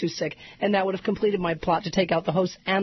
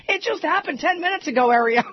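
mock Ed Schultz; 8 semitones higher than usual. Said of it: "He's like".

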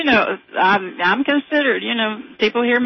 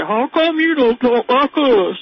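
slow, louder redneck drawl; redneck accent; 5 semitones higher, 5 dB louder, slower than usual. Retold or imitated. A mother imitating her son's schoolmate, redneck accent. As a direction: put on a thick redneck accent, drawn out. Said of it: "A real good redneck accent?".

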